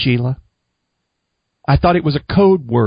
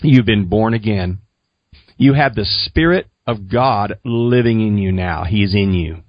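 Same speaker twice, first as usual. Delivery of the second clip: low, earnest counsel, mildly solemn; very serious tone; 5 semitones lower than usual. Retold or imitated. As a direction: retell it with sober, lowered gravity. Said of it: "they were very serious in this tone".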